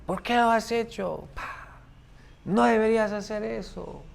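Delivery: high, reproachful mother's voice; scolding mother. Retold or imitated. Mother scolding her son.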